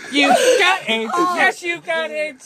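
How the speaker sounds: laughing. Real, not acted. Laughing, slow delivery.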